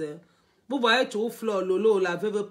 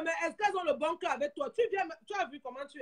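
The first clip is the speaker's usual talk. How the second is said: soft aside; 6 semitones higher, 11 dB quieter, faster than usual. Real, not acted.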